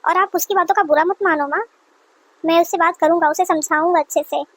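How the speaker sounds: hint of a patient son's voice. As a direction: play the son settling his upset mother down. Son reassures mother.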